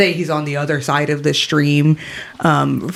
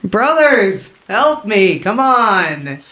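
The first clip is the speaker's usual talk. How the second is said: raised, urgent plea; pleading; 5 semitones higher, much slower than usual. Acted. Captive Talrin calls to his brothers for help, pleading. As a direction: beg your allies for help.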